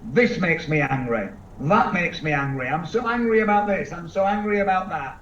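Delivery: imitating someone who's always cross; mock angry person. Seminar speaker imitating an easily angered person, mild mock anger. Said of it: "that gets angry very easily".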